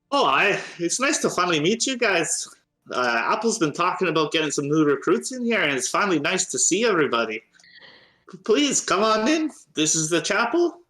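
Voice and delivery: high, chatty gnome with a put-on accent; gnome cleric Corky. Gnome cleric shows new recruits her chapel, high and friendly. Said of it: "trying to get this accent here".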